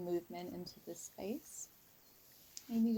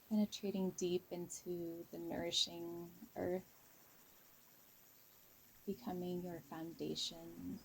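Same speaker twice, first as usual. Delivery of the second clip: guided meditation. Real, not acted. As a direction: ease listeners into a calm visualization, unhurried. Leads a guided visualization.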